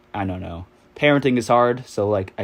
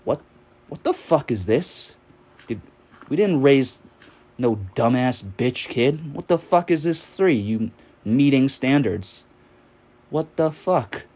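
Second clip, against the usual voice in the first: hammed-up father chewing out his son over a test; imitating a furious immigrant dad, voice pushed higher; angry dad yelling; 4 semitones higher than usual. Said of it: "he was like".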